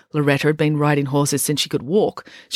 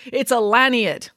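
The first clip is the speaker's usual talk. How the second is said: slow, higher, lightly winded correction; panting; 7 semitones higher, slower than usual. A narrator's reading. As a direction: correct someone while short of breath. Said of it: "panted Tom".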